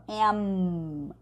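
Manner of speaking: "am" closed firmly on a humming M; "am" with a clear final M, not N; full M sound. Shown as a demonstration. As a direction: end "am" with lips shut on M. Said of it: "sempre falar com som de M".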